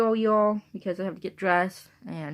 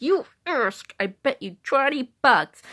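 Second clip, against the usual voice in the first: higher, louder retort; challenging bet; 5 semitones higher, 5 dB louder, slower than usual. Retold or imitated. Woman daring people on her unit, loud higher challenge. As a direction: throw down the bet loudly.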